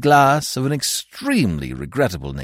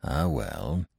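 sighing; 12 semitones lower, 10 dB quieter than usual. A narrator's reading. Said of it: "The young man sighed".

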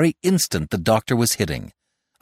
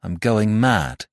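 slow, weighted confession falling at the end; dramatic announcement; slower than usual. Acted. Jack revealing his madness to the doctor, slow and dramatic. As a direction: draw it out for dramatic effect. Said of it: "He stopped dramatically".

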